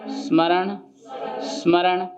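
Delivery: स्मरण with the स as a faint breath before मरण; barely-there स. Shown as a demonstration. Teacher demonstrating a breathy स in स्मरण. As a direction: blow the स of स्मरण away, then मरण. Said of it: "तो सा को हमने बिल्कुल हवा में उड़ा दिया".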